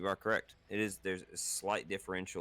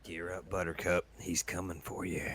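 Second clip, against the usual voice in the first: put-on Irish accent. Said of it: "You started out Irish".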